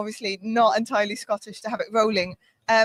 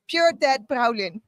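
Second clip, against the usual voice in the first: Glasgow accent; slower than usual. Shown as a demonstration. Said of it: "please try at home".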